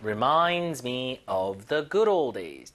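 stretched-out model phrase, GOOD stressed; very slow drill. Shown as a demonstration. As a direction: crawl through it so they catch it. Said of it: "들어볼게요". (아주 천천히 시범)

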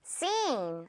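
"scene" as a soft, long SEEN; "scene" softly, the ee held and falling; model pronunciation. Shown as a demonstration. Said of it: "발음은".

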